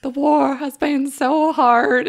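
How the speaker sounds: slow, solemn documentary letter reading; Ken Burns parody. Retold or imitated. Mocking the opening scene as a solemn, slow documentary letter. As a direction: read it like a hammed-up wartime letter. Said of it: "a parody of a Ken Burns documentary".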